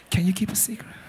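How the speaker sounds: breathy near-whisper; hushed, secretive question. Shown as a demonstration. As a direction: drop it almost to a whisper. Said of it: "Say it softer".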